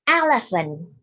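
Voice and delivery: teacher says elephant clearly for class to copy; a clear, firm elephant for pupils to repeat; model word for repeating. Shown as a demonstration. Teacher models elephant for pupils to repeat, clearly. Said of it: "Listen and repeat after your teacher".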